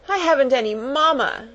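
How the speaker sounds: put-on high child's wail. A narrator's reading. Motherless little girl proclaiming her woe, wailing. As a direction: proclaim the grievance in a high whine. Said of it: "lift up her voice".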